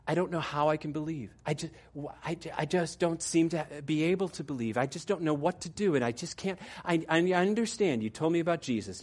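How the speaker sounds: mild, half-acted despair; tearful pleading. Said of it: "she was in tears".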